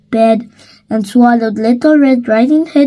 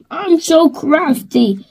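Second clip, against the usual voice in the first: higher, sly pleased wolf; chuckling wolf; 5 semitones higher than usual. Acted. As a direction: gloat with a chuckle. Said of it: "he chuckled".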